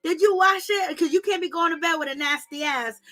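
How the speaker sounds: lightly voiced scolding grandma; grandmother scolding. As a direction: play a nagging grandmother checking on bathing. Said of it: "your grandmother would say to you".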